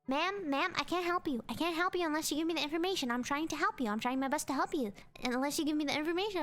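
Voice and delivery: quick, repetitive pleading of an agent; insistent. Retold or imitated. Phone agent pushing caller for card details, insistent. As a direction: press the caller, rattling it off fast.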